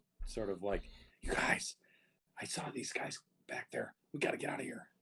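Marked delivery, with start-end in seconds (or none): 1.2-4.8 breathy shouted whisper. A player speaks in character to the other players, in a whisper-shout. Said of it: "I'm gonna like whisper, shout".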